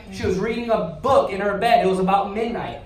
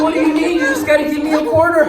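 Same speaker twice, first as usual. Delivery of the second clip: eager hustler pitch; 5 semitones higher, 5 dB louder, faster than usual. Retold or imitated. Kid hustling the neighbours' doors.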